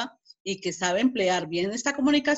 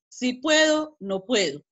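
wavering doubt; 4 semitones higher, slower than usual. Shown as a demonstration. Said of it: "Él ya aquí entró en duda".

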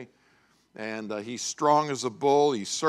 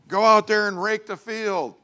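high, loud mock command; retold shouted farm order; father barking orders; 9 semitones higher, 8 dB louder than usual. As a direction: imitate a dad hollering instructions.

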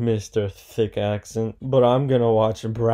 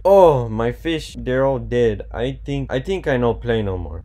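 mock whiny player; 3 dB louder than usual. Imagined frustrated player quote.

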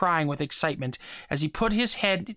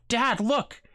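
sudden cry; 7 semitones higher than usual. A narrator's reading. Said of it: "Steve cried suddenly".

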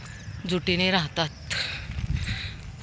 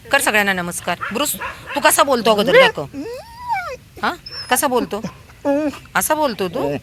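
high, loud sing-song talk to dogs; 5 semitones higher, 4 dB louder than usual. Real, not acted. She asks her dogs to speak for the viewers, high sing-song baby talk.

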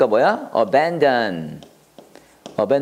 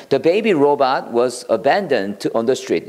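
slow, careful model sentence for learners; slow teacher read; much slower than usual. Shown as a demonstration. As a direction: read it out slowly, word by word. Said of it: "이렇게 하면 돼요".

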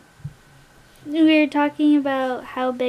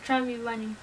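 cheeks stuffed full; 2 semitones lower, 8 dB quieter than usual. Real, not acted. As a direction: mouth stuffed with marshmallows. Chubby Bunny, mouth full of marshmallows.

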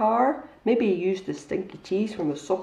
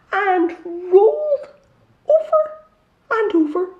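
loud, high, slow tumbling drama; building excitement; 5 semitones higher, 7 dB louder, slower than usual. A narrator's reading. Storyteller dramatizing Pip tumbling, loud and excited. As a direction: roll the words down the hill.

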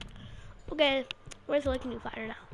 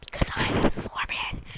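whisper. Pretend. Claims to be Scorpion.

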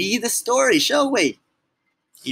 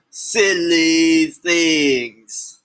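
drawn-out emphasis; 4 dB louder, much slower than usual. Pretend. Grown-ups made to say silly things.

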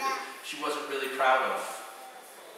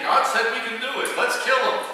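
high, loud, exclaimed quote; indignant mock outcry; 8 semitones higher, 6 dB louder than usual. Crowd turns on Joshua and Caleb, mock outcry.

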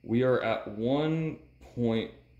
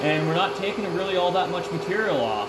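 machine noise behind. Real, not acted. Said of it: "I am sorry for the noise of the machine".

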